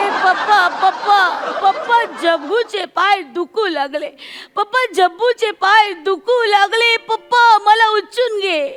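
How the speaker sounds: put-on slow childish whine; whiny child. A girl begs her papa to carry her, slow whine. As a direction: whine like a tired kid begging.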